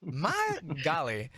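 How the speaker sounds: slow, high, huffy sigh of words; mock exasperation. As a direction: drag it out in fake dismay.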